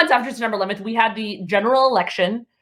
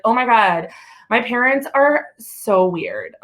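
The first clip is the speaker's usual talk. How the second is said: slow, whiny mimic of a young woman; mocking young woman; slower than usual. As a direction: drag out the complaint about her parents. Young woman complaining, mocked.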